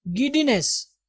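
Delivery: गिडीनेस with a single light d; correct pronunciation. Shown as a demonstration. Teacher modelling the word for students, single-d गिडीनेस. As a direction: say गिडीनेस as gi-dee-ness, no doubled d. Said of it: "गिड्डीनेस नहीं".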